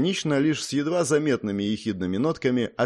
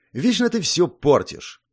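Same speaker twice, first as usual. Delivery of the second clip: displeased; 7 semitones higher, 4 dB louder than usual. A narrator's reading. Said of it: "недовольно сказал маркиз".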